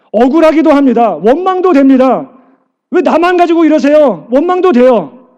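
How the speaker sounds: a pastor rousing the church with a loud, fervent sermon; full-force preaching. Acted. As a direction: preach it out to the congregation with fire.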